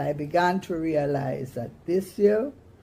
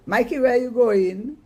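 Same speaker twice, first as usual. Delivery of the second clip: loud, high call; 8 semitones higher, 8 dB louder than usual. Acted. Mama calls after Mikey sneaking away, loud and high. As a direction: stop him in his tracks.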